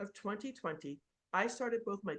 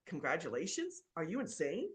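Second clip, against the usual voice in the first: Congratulations said with a questioning rise, lower and disbelieving; stunned disbelief at good news that isn't; incredulous echo; 5 semitones lower than usual. Real, not acted. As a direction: throw the word back like it's absurd. Echoes CPA in disbelief.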